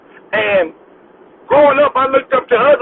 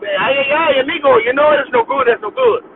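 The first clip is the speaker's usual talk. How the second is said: mock Mexican accent; 3 semitones higher than usual. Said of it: "I work with Mexicans too".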